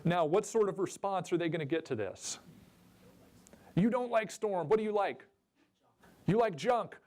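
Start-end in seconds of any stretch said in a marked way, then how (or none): 3.7-7.0 mock commenter replies. Voicing imagined replies to post.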